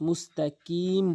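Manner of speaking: "মুস্তাকিম" with light front k; mistaken KAF. Shown as a demonstration. Teacher shows the common mistake, "মুস্তাকিম" with kaf. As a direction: say "মুস্তাকিম" with ordinary k. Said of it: "কফের জায়গায় কাফ এনে উচ্চারণ করে".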